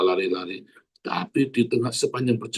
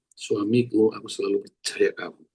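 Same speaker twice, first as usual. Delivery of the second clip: gentle sincere demo; 3 semitones lower than usual. Shown as a demonstration. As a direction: say it to your husband with care. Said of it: "Belajar ya, satu".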